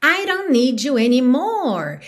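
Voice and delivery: "don't" softened to a tap after "I"; tapped D. Shown as a demonstration. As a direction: run "I don't" together as "I-ron". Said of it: "um rarará já".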